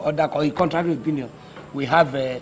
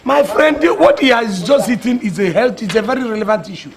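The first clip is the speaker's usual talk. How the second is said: loud rebuke; 5 semitones higher, 6 dB louder than usual. Acted. President rebuking objector.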